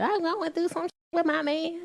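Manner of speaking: high, thin mock-tearful caller; mock crying client. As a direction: imitate a client crying down the phone. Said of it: "they be calling him crying".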